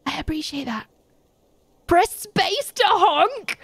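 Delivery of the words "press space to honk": high squeaky voice. Pretend. Reading prompt in high voice.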